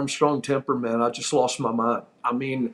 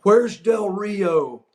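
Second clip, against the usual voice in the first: drawn-out, higher-pitched call; mildly raised voice, stretched out slowly; 5 semitones higher, much slower than usual. Retold or imitated. Wrestler retelling his demand to the laughing locker room, calling out. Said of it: "I just said out loud".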